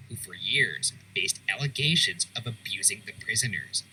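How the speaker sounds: measured, scripted voice-over; documentary narration. A narrator's reading. Host telling viewers of prison punishments, documentary narration. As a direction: narrate grim history with deliberate emphasis.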